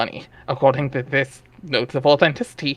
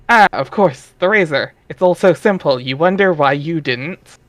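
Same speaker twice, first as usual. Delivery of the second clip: lightly raised, lively narrator voice; story narration; 2 semitones higher than usual. A narrator's reading. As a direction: read it like a playful storybook narrator. Reading the webcomic narration aloud.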